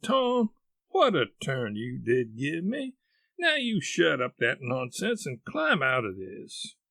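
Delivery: exasperated aunt, swooping pitch; relieved scolding. Acted. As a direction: scold fondly after a fright.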